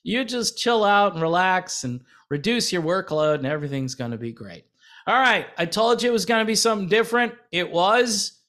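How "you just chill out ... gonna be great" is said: mock sales pitch. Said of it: "they might say".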